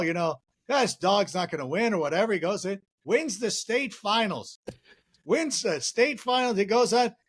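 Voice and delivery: lightly voiced rambling old-timer telling a shaggy dog joke; a hint of a deadpan folksy comic dragging out the joke; Norm Macdonald impression. Doing a light Norm Macdonald voice for the hosts while telling the shaggy dog joke. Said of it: "Norm Macdonald, uh, impersonation".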